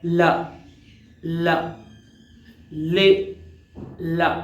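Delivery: tongue fully up then down for ला; slow isolated ला ले syllables; demo l sound. Shown as a demonstration. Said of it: "अब ल में ऊपर जाती है".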